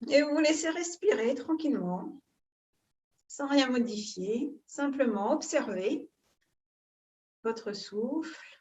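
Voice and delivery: calm guided breathing, long pauses between phrases; soothing yoga-teacher guidance, phrase by phrase; guided meditation. Real, not acted. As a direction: lead them gently into breath awareness, unhurried.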